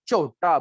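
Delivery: teacher demonstrating the deep चोटा; from deep inside. Shown as a demonstration. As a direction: say चोटा from the throat. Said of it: "थोड़ी अंदर से आवाज निकलेगी".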